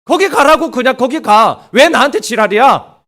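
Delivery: God sulking, snapping go away; sulky outburst. Acted. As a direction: push them away in a sulk. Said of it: "하나님이 완전히 삐졌어요".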